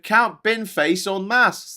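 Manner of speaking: slow, dramatic headline read; mock headline. Streamer reading a newspaper headline with mock drama. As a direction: stretch each word like a big reveal. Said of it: "reading headline dramatically".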